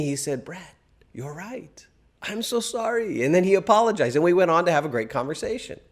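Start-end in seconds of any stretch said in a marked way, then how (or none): 0.5-3.2 imitated French friend. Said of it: "And then he said to me".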